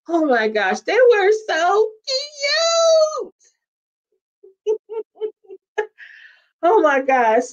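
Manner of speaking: gush, climbing high on the last words. Real, not acted. Fan swooning over the couple's love story, gushing.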